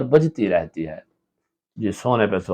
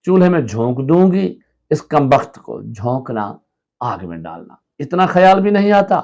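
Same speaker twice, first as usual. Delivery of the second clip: higher, scolding threat; angry threat; 3 semitones higher than usual. Acted. Wife threatening to burn the toy, angry and raised. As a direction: snap it at the child.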